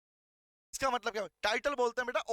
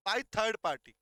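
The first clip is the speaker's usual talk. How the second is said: slow dictation; much slower than usual. Shown as a demonstration.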